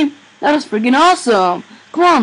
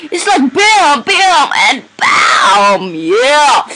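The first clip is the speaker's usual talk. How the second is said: adrenaline rush; much slower than usual. Real, not acted. Excited game action shouting.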